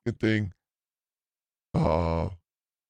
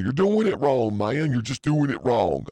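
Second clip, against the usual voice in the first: mock scolding boss; 3 semitones higher, 5 dB louder than usual.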